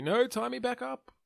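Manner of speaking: high-pitched, held-back yell; mock distant yell. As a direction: call out in a high voice without real volume. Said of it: "he's, like, yelling out to you".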